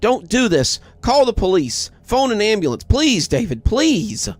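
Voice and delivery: high, desperate tearful begging; angry tearful pleading. A narrator's reading. Mother pleading with husband to phone an ambulance, tearful and high. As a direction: beg him through tears to call for help. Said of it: "My mother's angry, tearful".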